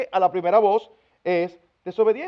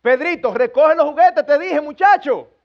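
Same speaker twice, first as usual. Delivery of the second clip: raised, higher scolding parent; louder, firmer call; 4 semitones higher, 5 dB louder than usual. Retold or imitated. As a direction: call it out louder, losing patience. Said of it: "A la tercera usted viene".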